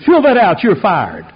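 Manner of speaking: retold angry boss; boss barking an order. Angry boss firing him.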